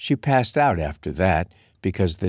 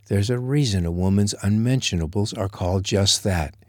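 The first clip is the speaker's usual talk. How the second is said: shocked indignation. Acted. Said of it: "Charlotte gasped".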